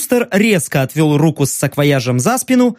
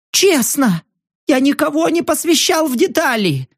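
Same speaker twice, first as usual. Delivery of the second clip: much higher, desperate denial; terrified protest; 5 semitones higher than usual. Acted. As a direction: swear it in panic, voice high.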